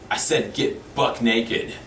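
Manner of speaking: menacing biker. Retold or imitated. Biker threatening Larry in cell.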